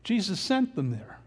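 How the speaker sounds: sent leaned on, falling; stress on sent. Shown as a demonstration. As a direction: press the word sent home. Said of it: "Now remember".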